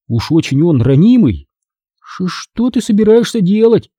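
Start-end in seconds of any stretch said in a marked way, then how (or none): 2.0-3.9 a touch of a nervous stutter; stammering. A narrator's reading. Frightened Todd asks what comes next, with a slight stammer. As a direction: stammer on the first sound, higher pitch. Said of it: "заикаясь".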